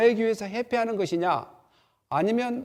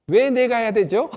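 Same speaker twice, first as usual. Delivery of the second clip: loud, higher, challenging question; defiant son; 4 semitones higher, 6 dB louder than usual. Retold or imitated. The third son defying his father, loud and challenging. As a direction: push back like a stubborn kid. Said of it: "셋째 아들은 대부분 어떻게 이야기하냐면".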